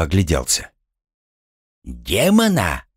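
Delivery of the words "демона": slow, drawn-out query; startled echo question. Acted. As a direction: repeat the word in drawn-out disbelief. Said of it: "переспросил он". (удивлённо переспрашивая)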